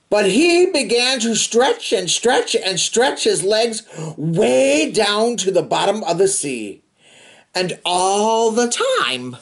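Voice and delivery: put-on steady read-aloud narration for kids; storybook reading. A narrator's reading. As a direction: read it like a bedtime picture book. Reading picture book to children.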